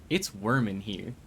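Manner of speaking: "worm" said with an er vowel where "warm" should be; joking "worm" for "warm". Shown as a demonstration. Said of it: "said worm instead of warm".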